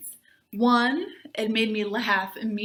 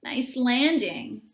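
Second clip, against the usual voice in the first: grating voice; slower than usual. Acted. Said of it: "in that grating Fraden voice".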